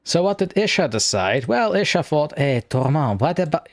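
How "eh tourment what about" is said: hammed-up French accent; ridiculous French accent. Artist pitching an idea to the streamer, in a ridiculous French accent. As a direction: put on a silly French accent. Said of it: "I'm going to put on a ridiculous French accent".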